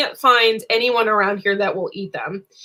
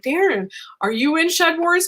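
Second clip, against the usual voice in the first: airhead question; 8 semitones higher than usual. Retold or imitated. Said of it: "I'm like, And then I'm an airhead".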